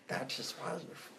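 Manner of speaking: soft creature voice with no clear pitch; botched alien master slipping into cartoon alien; Stitch. Podcaster failing at an alien impression, soft cartoon creature voice. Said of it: "wait, that's Stitch".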